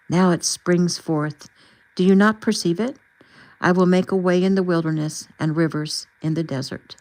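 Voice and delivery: measured, emphatic Bible reading; deliberate reading with weight on key words; scripture reading. A narrator's reading. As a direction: proclaim the verses phrase by phrase. Reads scripture closing chapter.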